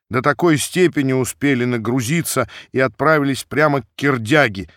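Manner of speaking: usual speaking voice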